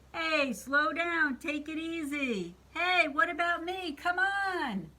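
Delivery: high-pitched, indignant storybook witch; protesting witch. Acted. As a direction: call out to the greedy monster, pitched high. Witch protests as monster eats.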